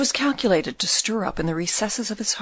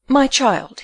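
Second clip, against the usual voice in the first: strangely commanding, louder; 5 semitones higher, 5 dB louder than usual. A narrator's reading. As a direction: command her chillingly. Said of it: "with that strangely commanding accent".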